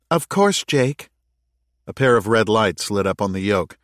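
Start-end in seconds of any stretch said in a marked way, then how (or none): 0.1-1.1 high-pitched AI reply; Anubis's AI. A narrator's reading. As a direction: acknowledge as the ship's AI, pitched well up. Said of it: "responded Anubis's A I".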